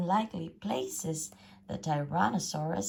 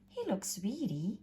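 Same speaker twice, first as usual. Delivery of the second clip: grumbling mother; 5 semitones higher, 4 dB quieter than usual. A narrator's reading. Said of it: "And she grumbled".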